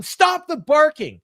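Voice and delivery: high, loud, frantic imitation of MJF; mock heel champ. Imitating MJF cutting off Brody's music, high and loud. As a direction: squeal it like a bratty champ. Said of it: "Fans are barking".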